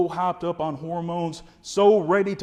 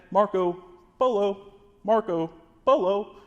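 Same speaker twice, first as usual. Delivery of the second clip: slow, higher sing-song Marco Polo; sing-song calling; 5 semitones higher than usual. Shown as a demonstration. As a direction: call out like a kids' pool game. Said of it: "kinda like that".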